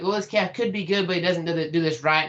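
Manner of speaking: a touch of letdown, understated; disappointed. Shown as a demonstration. Coach showing how reasons sound when a calf disappoints, mildly let down. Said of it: "Kinda sound disappointed".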